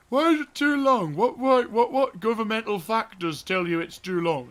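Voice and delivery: high, loud indignant questioning, easing off towards the end; exasperated outburst. Acted. Player railing at the game over a length limit, exasperated. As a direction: burst out demanding a reason, then wind down. Mock outburst at the game's refusal.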